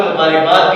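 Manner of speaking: مبارکباد as mu-baa-rik-baad; common mispronunciation. Shown as a demonstration. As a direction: say مبارکباد with a short i before k. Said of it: "استعمال کیا جا رہا ہے".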